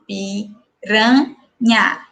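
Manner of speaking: "piranha" drawn out very slowly, each syllable apart, final a held; "piranha" pulled apart very slowly for the class. Shown as a demonstration. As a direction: stretch out "piranha" so every syllable is heard. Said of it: "Olha só".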